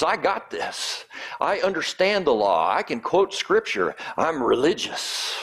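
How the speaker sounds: puffed-up, pleased with himself; smug boast. Retold or imitated. Expert boasting to Jesus.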